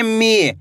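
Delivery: मी with a long, stretched ee; मी, held long as a reading demo; drawn-out long vowel. Shown as a demonstration. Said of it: "खींच के करेंगे".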